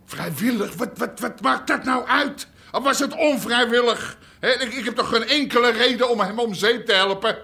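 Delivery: mocking laugh. Suspect laughs off accusation.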